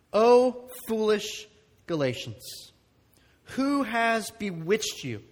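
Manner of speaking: slow, weighty reading of scripture. Acted. Pastor reading Galatians to the congregation, slow and weighty. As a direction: read the verse slowly, letting each phrase land.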